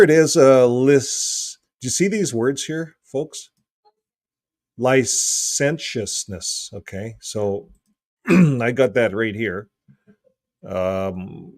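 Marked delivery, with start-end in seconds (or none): 4.8-6.7 "Licentiousness" drawn out syllable by syllable, ly-SEN-shus-ness; careful pronunciation. Shown as a demonstration. Host sounding out a Greek translation, "Licentiousness" slow and careful. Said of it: "how to pronounce that".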